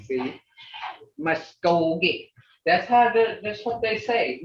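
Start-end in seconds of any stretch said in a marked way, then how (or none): 1.2-2.3 MUSKOGEE slow, with a long toned KOH; drawn-out "Muskogee", tone carried on the middle syllable; toned native pronunciation. Shown as a demonstration. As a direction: stretch the middle of Muskogee, mus-KOHH-geh. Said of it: "See how that tone comes in?".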